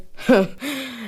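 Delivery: short mocking scoff; sarcastic laugh. A narrator's reading. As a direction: let out a brief sneering laugh. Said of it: "وكمل بسخرية". (ضحكة ساخرة)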